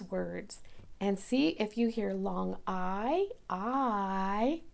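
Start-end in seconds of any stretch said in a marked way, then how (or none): 1.8-4.6 long I drawn out slowly; teacher stretching "I"; stretched long I. Shown as a demonstration. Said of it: "We stretch it out".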